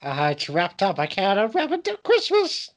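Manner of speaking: high, whiny mock character voice; silly high put-on voice. Comic pestering his cohost, in a high silly voice. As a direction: play the childish nuisance. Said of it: "your bloody voice".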